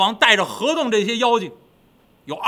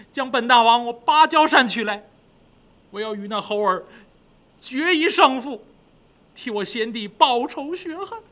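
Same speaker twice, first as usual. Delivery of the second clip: vengeful demon king; 4 semitones higher than usual. Acted. King vows to avenge brother.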